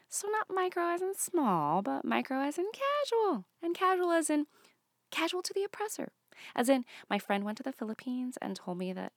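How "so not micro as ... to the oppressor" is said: mock whisper. Stand-up mock conspiratorial explanation.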